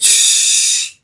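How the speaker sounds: sharp whispered shush; retold shush. Friend on the street shushing me, whispered. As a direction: hush me like someone might overhear. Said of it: "And she's like".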